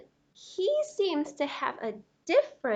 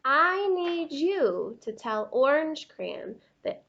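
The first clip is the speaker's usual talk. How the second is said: a lightly voiced huffy crayon insisting it is right; indignant yellow crayon; 5 dB louder than usual. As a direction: read it like a proud, offended crayon.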